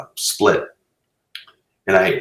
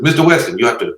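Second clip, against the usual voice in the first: higher, louder put-on Asian accent; badly faked Asian accent, pitched up; 3 semitones higher, 5 dB louder than usual. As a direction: imitate an eager filmmaker in a mock Asian accent. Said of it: "it's an Asian accent".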